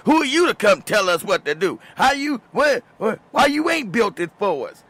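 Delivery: imitating the women who bit his head off; mock angry women. Mocking angry forum women.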